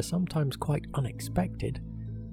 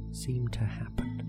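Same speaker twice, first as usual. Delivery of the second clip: whispering; 6 dB quieter than usual. Acted. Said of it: "whispered end of suggestion".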